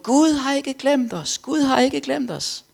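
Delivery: high, loud, slow proclaiming shout; slow, high, loud preacher's cry to the crowd. Retold or imitated. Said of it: "han løb rundt".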